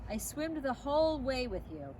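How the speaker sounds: lightly shaky, moved voice; unsteady voice. Acted. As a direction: hold back emotion. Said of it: "his voice unsteady".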